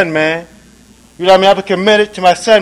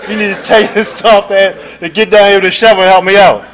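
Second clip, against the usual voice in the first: impatient anger; 3 semitones higher, 4 dB louder than usual. Retold or imitated. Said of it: "the impatience and the anger was coming up".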